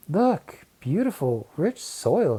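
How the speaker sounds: high excited call; exclaiming. Acted. Keisha shows the soil to the class, thrilled. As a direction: burst out with delight at the find. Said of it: "she exclaimed".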